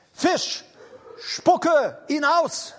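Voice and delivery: high, slow, drawn-out command to the fish; commanding decree. Acted. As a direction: proclaim it like a divine order.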